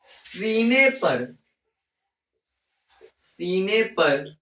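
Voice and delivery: very slow, words stretched apart; slow dictation. Shown as a demonstration. Teacher dictating mnemonic to class, very slow. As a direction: spell it out slowly for copying. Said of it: "dictating mnemonic slowly".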